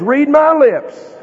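slow, high and loud, each word spaced; read my lips. Acted. Jesus insisting to the doubting men, slow loud spaced words. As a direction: spell it out word by word.

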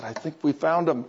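lightly imitated secret aside; retold whisper. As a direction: pass it on confidentially, low and soft. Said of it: "I went up and whispered".

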